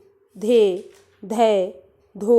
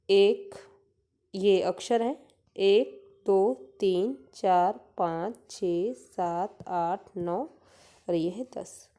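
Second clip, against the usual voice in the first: slow counting; much slower than usual. Shown as a demonstration. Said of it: "देखिए".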